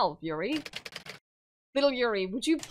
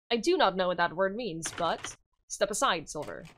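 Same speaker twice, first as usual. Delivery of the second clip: lower, heavy and commanding; stern innkeeper; 3 semitones lower than usual. Acted. Chalupnik telling Silver to step aside, lower stern voice. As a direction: order her out of the way.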